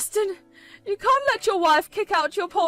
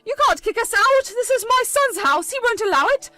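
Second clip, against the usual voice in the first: much higher and much louder outraged cry; screeching protest; 7 semitones higher, 7 dB louder than usual. Acted. Mother screeching at the wife to stay in the house. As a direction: shriek that they can't be thrown out.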